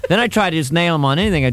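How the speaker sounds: normal talking voice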